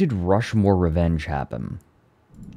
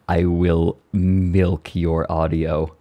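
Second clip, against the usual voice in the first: laughing; slower than usual. Real, not acted. Laughing mock threat at Alfie.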